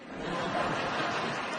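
little imitated quack; duck call. Comic coaxing the backyard ducks, little duck call. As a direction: let out a small duck noise.

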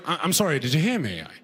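put-on lightly done British accent. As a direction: speak as a British visitor asking politely. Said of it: "like a British person".

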